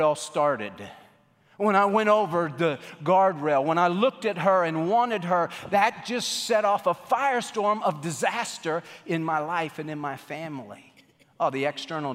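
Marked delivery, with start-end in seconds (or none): 1.6-10.9 lightly acted anguished regret; louder, imagined confession of guilt; David. Preacher voicing David looking back on his sin, acted regret. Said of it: "no doubt he goes back to his bedroom".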